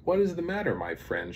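lightly voiced kind little engine; kindly. A narrator's reading. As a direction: ask with storybook concern. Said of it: "she asked kindly".

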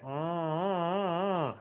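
slow high nasal uh slide; NG sound. Shown as a demonstration. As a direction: glide up on a nasal ng. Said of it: "the exercise that I wanna show you is on that N G".

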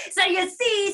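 high, loud bear crowing; triumphant bear. Acted. Bear having outsmelled the rabbit, triumphant. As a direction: crow it back as a gloating bear.

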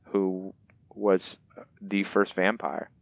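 put-on measured storybook narration of an old legend; book reading. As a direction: read it like an ancient tome, lightly dramatic. Reads the in-game book aloud.

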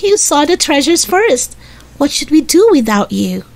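high, praising big-sister voice; delighted cry. A narrator's reading. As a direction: praise the little brother in a high voice. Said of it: "cried Jessie".

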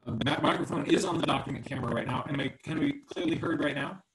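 crackly, breaking-up call audio; crackling audio. Real, not acted. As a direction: voice crackling over a bad mic. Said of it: "No, you're crackling".

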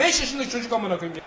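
laughing swear. Real, not acted. Laughs mid-rant.

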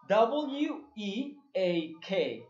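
slow letter-by-letter spelling; spelled out slowly. Shown as a demonstration. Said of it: "Vamos a completar la palabra". (deletreando muy despacio)

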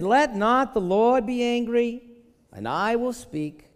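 put-on slow, loud, drawn-out Jewish accent. Abraham begs the Lord not to be angry, Jewish accent. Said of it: "I need to get my Jewishness on right now".

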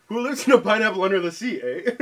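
put-on a Canadian accent only in the tacked-on eh; Canadian line played for laughs, ending on eh; mock Canadian accent. Friends guessing accents, joking Canadian accent with eh. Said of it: "It's Canadian".

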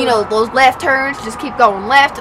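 put-on American country accent. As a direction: talk like country folk, accent and all.

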